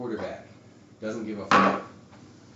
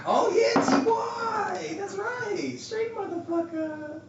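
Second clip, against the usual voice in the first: high, loud excited yell; excited shout; 4 dB louder, much slower than usual. Real, not acted. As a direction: whoop it out, thrilled. Remembers his star receiver.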